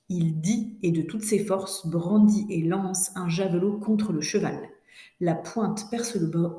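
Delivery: expressive, measured reading aloud; dictation read-through. Shown as a demonstration. Teacher reads the whole dictation to students, measured story reading. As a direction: read the story clearly for a class.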